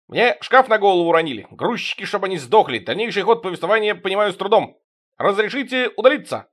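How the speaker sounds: whiny servile voice. Acted. Servile porter complains to boss.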